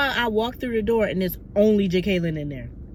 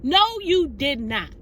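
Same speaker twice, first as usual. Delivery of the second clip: no, you did not, growing more and more thrilled; disbelieving excitement; 5 semitones higher than usual. Retold or imitated. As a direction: build up the squeal of disbelief. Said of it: "still, raw as ever".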